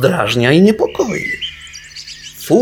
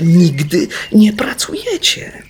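tearful; 6 semitones higher, 5 dB louder than usual. Acted. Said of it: "oświadczył przez łzy najstarszy".

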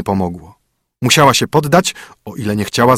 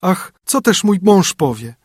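lament; 8 semitones higher than usual. Acted. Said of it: "zawołała".

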